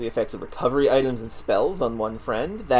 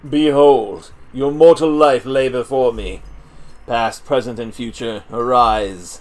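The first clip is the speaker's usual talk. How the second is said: fortune teller; 5 dB louder than usual. Acted. Tarot reader summons the cards.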